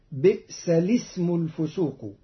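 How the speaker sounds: الاسم joined as lism, without its hamzas; hamza dropped. Shown as a demonstration. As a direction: run بئس into lism smoothly. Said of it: "فتقرأ". (الاسم بلا همز في الوصل)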